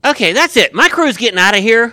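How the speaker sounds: fed-up announcement. Acted. Foreman storms off the job.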